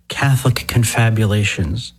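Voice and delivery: "confabulations" said deliberately, leaning on the "fab"; pointed emphasis. Real, not acted. Host slyly naming large Catholic gatherings, pointed stress on "confabulations". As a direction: draw attention to the "fabulations" in "confabulations". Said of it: "emphasis on the word fabulous".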